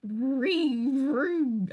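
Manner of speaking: a falling vree vree, like a little car; imitated car noise. Streamer imitating the game's car noise, playful. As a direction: mimic the car sound in the game. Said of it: "That's the sound".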